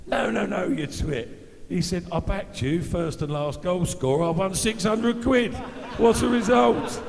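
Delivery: imitating the dad yelling gleefully about his winnings; excited dad. Dad bursts out about his bet.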